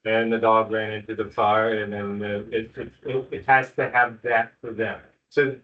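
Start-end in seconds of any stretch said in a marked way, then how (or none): 0.0-1.8 monotone read-aloud with no inflection at all; read without inflection. Shown as a demonstration. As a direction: read it dead level, like a bored reader. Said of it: "They need to hear inflection in your voice".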